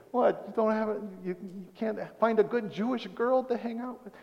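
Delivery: put-on a self-admittedly clumsy Jewish mom accent, nagging. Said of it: "a Jewish mom saying that".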